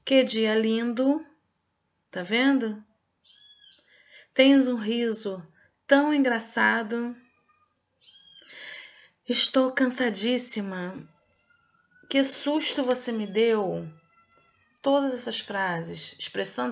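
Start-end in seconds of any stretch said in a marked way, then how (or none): 0.0-1.2 slow, louder admiring exclamation; exclamatory reading. Shown as a demonstration. Teacher reading an exclamation example for pupils, slow and expressive. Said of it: "frases que são utilizadas o ponto de exclamação". 4.3-13.9 slow, expressive exclamations; exclamatory reading. Shown as a demonstration. Teacher reading exclamation examples for pupils, slow and emphatic. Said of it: "frases que são utilizadas o ponto de exclamação".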